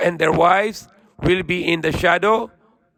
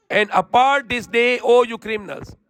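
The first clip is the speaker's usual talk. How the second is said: a hint of a stern commanding voice, raised; stern divine command; 5 semitones higher than usual. Preacher voicing the judgment on the criminals, lightly stern.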